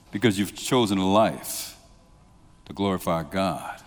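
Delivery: ordinary talk, nothing marked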